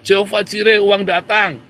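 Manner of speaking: shouting to God. Retold or imitated. Preacher showing servants of God how to cry out, loud call. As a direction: call it out boldly to the Lord. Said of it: "teriak sama Tuhan".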